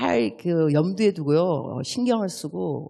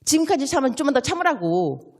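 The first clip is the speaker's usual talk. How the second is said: husband soothing wife; 5 semitones higher than usual. Retold or imitated. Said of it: "이럴 때 남편이 어떻게 말을 하냐면".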